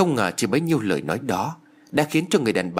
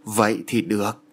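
pleased. A narrator's reading. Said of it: "Bà ta hài lòng".

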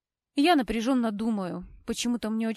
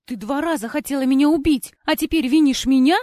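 indignant accusation; 5 semitones higher, 9 dB louder than usual. A narrator's reading. Heroine accuses Cora.

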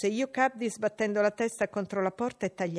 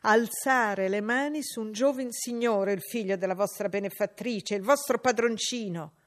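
scolding maid; 5 dB louder than usual. Acted. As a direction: lecture the girl on her place. Abbott scolding.

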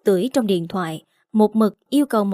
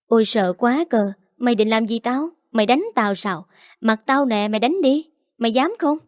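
mocking taunt. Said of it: "Nó nhếch mép biểu môi".

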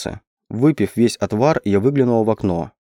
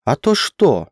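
higher, defiant challenge; a stubborn, taunting little question; 4 semitones higher, slower than usual. A narrator's reading. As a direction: dare him to go on. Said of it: "упрямо спросила я".

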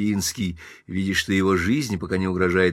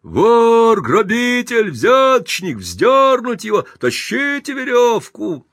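high, very loud furious yells, slower on the end; five hundred voters howling at Pinsky; crowd shouting; 13 semitones higher, 7 dB louder, slower than usual. Acted. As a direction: roar for a lynching. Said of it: "Пятьсот человек хором".

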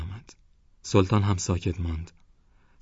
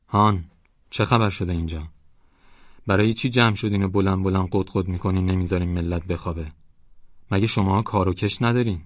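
hoarse sleepy voice. Acted.

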